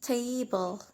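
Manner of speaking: "table" stressed on its first syllable; "table" as a careful example, front-stressed. Shown as a demonstration. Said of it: "we stress in the, uh, in the first syllable".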